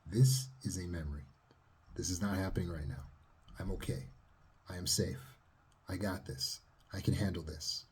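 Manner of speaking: soft, steady calm self-talk; reassuring self-talk. Shown as a demonstration. Therapist demonstrating self-talk, calm and reassuring. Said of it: "go in with the self-talk".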